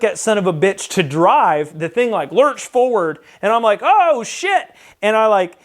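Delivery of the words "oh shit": high-pitched mock alarm, rising at the end; alarmed reaction. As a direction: re-enact a sudden "uh-oh" moment, pitched way up. Retelling his reaction to the lurch.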